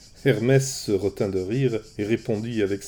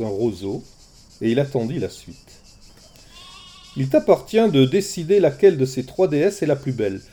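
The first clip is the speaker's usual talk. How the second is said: light-hearted messenger; 3 semitones higher, 4 dB louder than usual. Acted. Hermès breezy to shepherd.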